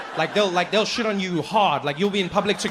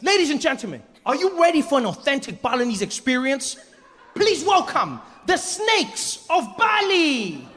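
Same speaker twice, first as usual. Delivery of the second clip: much higher, drawn-out grand announcement; showman announcer; 8 semitones higher than usual. Retold or imitated. Deng Basan introduces the Snakes of Bali, much higher, slow and grand. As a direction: announce the act with fanfare, slowly.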